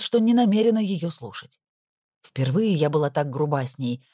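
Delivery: ordinary delivery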